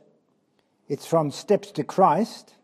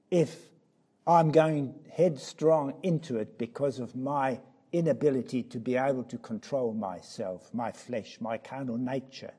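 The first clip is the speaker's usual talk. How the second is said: hushed confession; 5 semitones lower, 6 dB quieter than usual. Acted. Confessional drop in voice.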